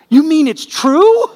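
high, loud laughing question; laughing disbelief. Retold or imitated. To the crying cashier, a laughing incredulous question. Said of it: "And I felt like saying".

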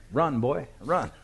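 put-on loud, high playful call to the boy; mock call out. Preacher jokingly calls out to the boy, a loud playful shout.

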